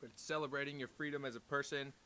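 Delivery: muffled, talking into a cup. Real, not acted. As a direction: speak into a cup. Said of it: "I'm talking into the cup".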